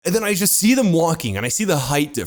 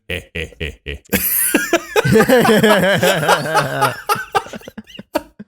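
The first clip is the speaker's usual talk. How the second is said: creepy NPC chuckle; 6 semitones higher, 4 dB louder than usual. Acted. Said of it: "he is a fucking Dark Souls N P C".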